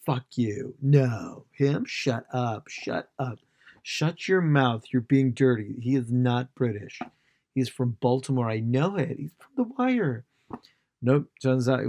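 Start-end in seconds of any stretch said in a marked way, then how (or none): 0.1-10.2 hammed-up refusal to believe it; mock indignant American fan; indignant denial. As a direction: argue back as an outraged fan.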